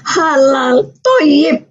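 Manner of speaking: high, weepy mother's comforting; imitated tearful reassurance. Mother reassuring her crying daughter, imitated as tearful. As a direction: console a child as if through tears. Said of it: "sambil nangis, bilang".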